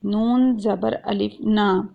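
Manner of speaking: نون زبر الف نا spelled out very slowly; drawn-out letter spelling. Shown as a demonstration. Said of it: "جیسے کہ قرآن پاک میں ہے خلقنا".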